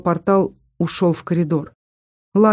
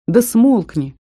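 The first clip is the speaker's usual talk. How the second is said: higher, sharp hush-up; snarling; 5 semitones higher, 3 dB louder, slower than usual. Acted. Kara snaps at Viter, higher and sharp. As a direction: snap at him to shut up. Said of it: "оскалилась Кара".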